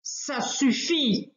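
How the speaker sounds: slow, heavy, stern order; an elephant putting a stop to it; furious elephant. Acted. Elephant stopping the wolf, slow furious order. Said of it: "barille monsieur Éléphant furieux".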